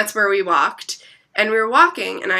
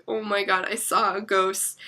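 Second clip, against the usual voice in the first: much softer, subdued admission; hushed retold shock; 8 dB quieter than usual. Storyteller confiding in her friend about the ghost, hushed. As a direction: drop the volume for a hushed confession.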